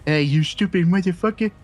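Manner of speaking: high, nasal, sneering crooked cop voice; mock a smug crooked cop in a high nasal whine; nasally bitch voice. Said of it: "that's a really good impression".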